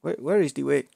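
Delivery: hammed-up Ugandan meme accent; mock Ugandan accent. Asking friends the way to Uganda, mock Ugandan accent. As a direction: put on a joke Ugandan accent.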